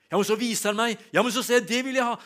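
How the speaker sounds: eager wanting. Retold or imitated. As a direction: burst out with it, wanting it all. Excited inner dialogue with the Spirit.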